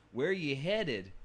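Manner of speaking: "Where you headed" stretched out slowly, as the book spells it; slow accent demo. Shown as a demonstration. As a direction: slowly sound out the bartender's drawled "headed". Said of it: "spelled where, Y H H E A D I N apostrophe".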